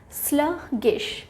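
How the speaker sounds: स्लगिश slowly split as "slug... gish"; teacherly, drawn-out स्लगिश with a gap mid-word; syllable by syllable. Shown as a demonstration. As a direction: break स्लगिश into two slow, separate syllables. Teacher breaks up new word.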